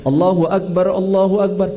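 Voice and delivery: "Allahu Akbar" stopped then run on; mock the stop-then-join error; paused yet joined. Shown as a demonstration. Teacher mocking a wrong takbir for students, stop then join. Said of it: "Diwakaf tapi disambung".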